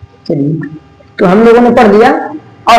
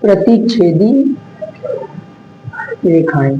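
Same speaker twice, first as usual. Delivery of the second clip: slow term drill; 4 semitones lower, 6 dB quieter than usual. Shown as a demonstration. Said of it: "किसके बारे में?".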